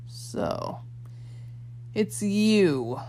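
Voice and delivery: strange hissed villain voice. Acted. Fiery man hissing at the boy, menacing. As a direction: let it hiss out, menacing. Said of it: "The fiery man hissed".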